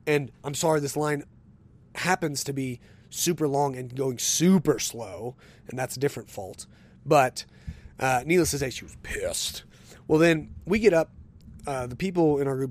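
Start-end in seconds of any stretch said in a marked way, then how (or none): 0.1-6.7 heated retold retort. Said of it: "I said".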